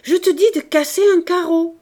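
high, loud commanding shout; furious order. A narrator's reading. Father forcing his frightened child to obey, furious order. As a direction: bellow it, allowing no refusal.

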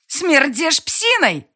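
very high, loud, slow sneer; furious insult. A narrator's reading. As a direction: hurl the insult. Girl insults him.

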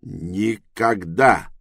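slow, loud furious "Никогда"; explosive rage. Acted. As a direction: roar it out in fury. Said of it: "рассвирепел Тревис".

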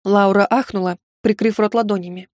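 usual speaking voice

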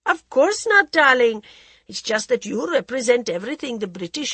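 languid society lady, teasing; a drawling, worldly hostess; Lady Modi voice. Acted.

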